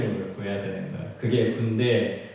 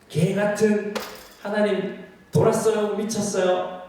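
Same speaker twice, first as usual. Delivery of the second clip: angry outburst at God; 9 semitones higher, slower than usual. Retold or imitated. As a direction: hurl it at God as if jabbing a finger. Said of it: "삿대질 하는 거죠". (하나님께 삿대질하듯 높고 크게 따지는 목소리)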